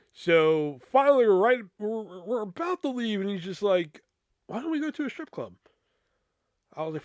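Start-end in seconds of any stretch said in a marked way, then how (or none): 4.5-5.5 friend's voice. Retold or imitated. Friend suggests strip club.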